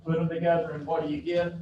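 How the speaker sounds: fast peppy chant to the class; rally them like a cheerleader. Shown as a demonstration. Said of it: "I sound like a cheerleader".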